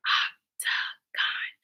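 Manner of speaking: hushed, voiceless octagon, syllable by syllable; whispered octagon. Shown as a demonstration. Teacher asking pupils to whisper with her, whispered octagon. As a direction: whisper octagon in three slow beats. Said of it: "Whisper with me".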